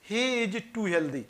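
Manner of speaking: said slowly and softly as a model; slow example sentence. Shown as a demonstration. Teacher slowly reading an example to students. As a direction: read the example out slowly, word by word. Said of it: "जैसे".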